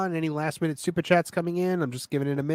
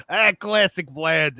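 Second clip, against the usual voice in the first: put-on Russian accent; much slower than usual. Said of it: "I used to just do the Russian".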